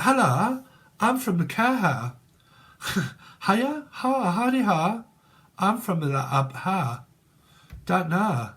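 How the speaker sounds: squeaky cartoon greeting; silly Care Bear. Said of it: "And like".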